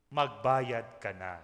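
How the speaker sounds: slow, drawn-out "Magbayad ka na" to a neighbour; slow teasing reminder to pay up; playful demand. Shown as a demonstration. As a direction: stretch it out slowly as a joke. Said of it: "sabihin mo nga sa iyong katabi".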